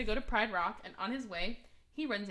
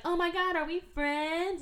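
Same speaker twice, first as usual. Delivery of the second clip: excited; 8 semitones higher, 4 dB louder, slower than usual. Retold or imitated. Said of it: "she's like".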